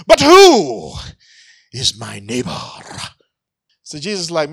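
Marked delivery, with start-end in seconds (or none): 0.1-2.6 put-on a testy lawyer in a Jewish accent. Lawyer justifying himself to Jesus, Jewish accent. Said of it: "hear his accent and his tone".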